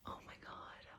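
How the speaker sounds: voiceless, barely audible aside; hushed, breath-only reaction; awed whisper. Real, not acted. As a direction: whisper it in amazement. Awed aside at cute packaging.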